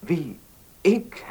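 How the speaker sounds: a startled Ik jumping high; surprised. Acted. Young man startled by the notary's marriage question, voice jumping up. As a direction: caught off guard, voice leaps up on Ik.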